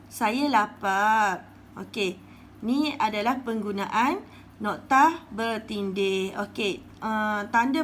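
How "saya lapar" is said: slow read example. Shown as a demonstration. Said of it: "Hafiz kata pada ibu dia".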